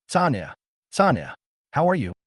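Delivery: shaky, tearful question; trembling voice. Acted. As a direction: let the voice tremble. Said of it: "in a trembling voice".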